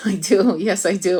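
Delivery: talking through laughter. Answering whether they connect to guides, laughing while talking. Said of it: "I'm laughing because I do".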